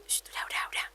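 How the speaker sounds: imitated whisper of relatives calming things down; hushing aunts. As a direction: shush her softly so nobody hears. Aunts hush her, pinching her.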